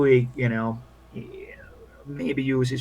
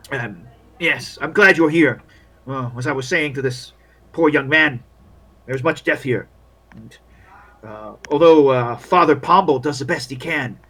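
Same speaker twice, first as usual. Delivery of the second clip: lightly voiced, measured formal welcome; solemn camp figure; 6 dB louder than usual. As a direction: greet the newcomer with grave courtesy.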